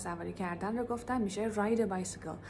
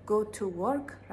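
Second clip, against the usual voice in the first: very slow model; much slower than usual. Shown as a demonstration.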